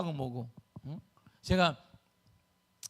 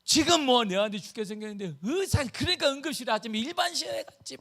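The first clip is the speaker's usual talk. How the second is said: imitated outburst of a worked-up father; angry father; 5 semitones higher than usual. Imitating brother-in-law protesting in the ER, angry. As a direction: protest as if your son were dying. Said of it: "너무 화가 난 거예요".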